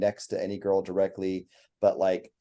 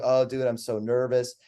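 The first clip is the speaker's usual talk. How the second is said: higher-pitched imitation of a nervous client; mock complaining; 4 semitones higher than usual. Client complaining to the photographer about nerves, mock complaint. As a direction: lightly whine like an awkward client. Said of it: "and they're complaining".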